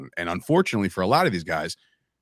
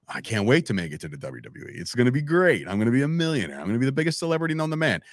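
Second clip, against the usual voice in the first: mock-naive excitement, building higher; eager dreamer; 3 semitones higher, faster than usual. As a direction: start contained, then rise and speed into big dreams. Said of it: "those aspirations were like".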